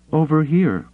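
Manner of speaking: high, loud call across a roof. Acted. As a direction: call out to him. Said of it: "she called back".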